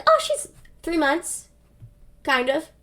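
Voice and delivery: halting, with long gaps between bits; evasive stalling. Retold or imitated. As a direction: hedge word by word, buying time. Evasive answer about baby's age.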